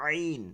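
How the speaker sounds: "আইন" squeezed from the throat, long; soft thin ain. Shown as a demonstration. Teacher showing the throat letter, soft and thin. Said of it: "নরম এবং চিকন আওয়াজে".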